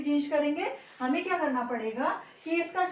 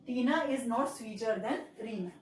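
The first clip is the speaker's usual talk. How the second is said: slow, a little softer, full sentence read out; slow dictation; 4 semitones lower, 3 dB quieter, much slower than usual. Shown as a demonstration. Teacher reading the finished sentence to students, slow and soft. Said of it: "इस तरीके से ये change करना हमने सीखा".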